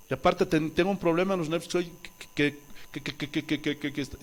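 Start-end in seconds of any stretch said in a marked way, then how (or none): 1.7-4.2 repite el "que" atascado, bajito; demostrando tartamudeo. Shown as a demonstration. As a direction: imita su viejo tartamudeo con "que, que, que". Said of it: "Siempre tartamudeaba". (tartamudeo imitado a medias, suave)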